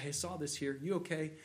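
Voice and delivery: softly voiced check on a friend; loving spirit. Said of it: "in a loving spirit and say".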